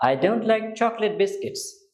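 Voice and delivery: every word slow and clearly spaced; slow teacher demo; slow model answer. Shown as a demonstration. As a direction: model the sentence slowly for learners. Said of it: "কি বলবেন?".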